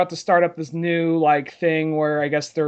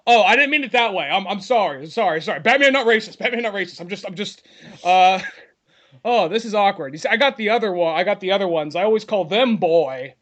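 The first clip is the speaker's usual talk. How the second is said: hammed-up flustered apology, raised pitch; Batman; 3 semitones higher than usual. Unmasked hero excuses himself to his sidekick, mock flustered and awkward. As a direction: backpedal awkwardly, stumbling over repeated apologies. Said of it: "when he takes off the mask".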